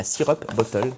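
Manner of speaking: "syrup bottle" said in a proudly put-on English accent. Shown as a demonstration. Vlogger reading the bottle label aloud in a playful mock English accent. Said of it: "avec mon beau bel accent anglais".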